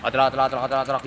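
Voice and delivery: quick otrok otrok rattle sounds; imitated rattle. Shown as a demonstration. Mechanic mimicking the hand-turned roller rattle with otrok sounds. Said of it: "kayak gini suaranya".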